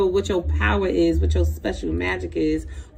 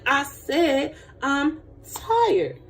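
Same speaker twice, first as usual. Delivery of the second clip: higher, drawn-out insistence; slow, whiny-weary protest; exasperated tired refusal; 6 semitones higher, much slower than usual. Acted. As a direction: stretch it out, fed up with being asked. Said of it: "You be like".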